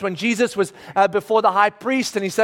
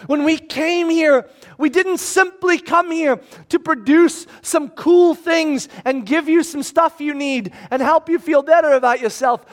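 raised, high, emphatic appeal; Paul shouting; 5 semitones higher than usual. Acted. Paul explaining to the crowd why they came, raised voice. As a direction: call out firmly to a crowd. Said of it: "So Paul immediately shouts".

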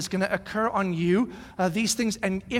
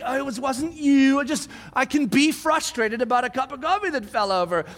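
trying to recover; 7 semitones higher, 5 dB louder than usual. Retold or imitated. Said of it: "I'm like".

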